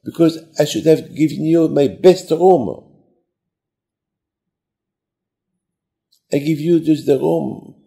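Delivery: high, mildly plaintive confession; acted tearful regret. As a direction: lament it as if close to tears. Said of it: "Why are you crying?".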